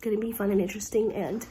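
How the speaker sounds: blocked nose, sick voice; nasally voice. Real, not acted. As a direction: speak through a stuffy nose. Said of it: "sorry for my nasally voice".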